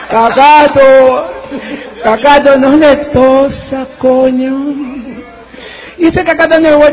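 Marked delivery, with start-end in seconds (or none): 0.1-4.7 laughing plea. Retold or imitated. Begging the spider, laughing.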